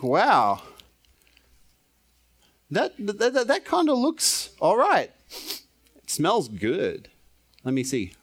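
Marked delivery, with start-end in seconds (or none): 0.0-7.1 excited inner thought. Retold or imitated. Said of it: "I think".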